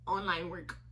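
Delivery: low, soft, matter-of-fact reply; evasive answer. Retold or imitated. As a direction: answer quietly and give nothing away. Evasive answer to clerk's question.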